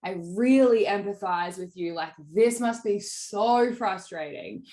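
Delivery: understated empathetic sales pitch. Shown as a demonstration. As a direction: show the client you feel their pain, slowly. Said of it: "the emphasis that I use on the words is exactly how I said it then".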